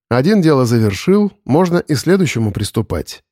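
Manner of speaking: ordinary delivery, nothing marked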